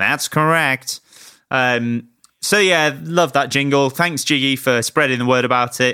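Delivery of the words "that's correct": slightly nasal put-on voice. Demonstrating a musician's way of talking after describing it: slightly nasal impression of a musician. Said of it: "Talks like that".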